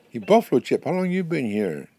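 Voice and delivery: high, loud storybook call; eager hailing. Acted. Porcupine hails a buffalo chip, calling out eagerly.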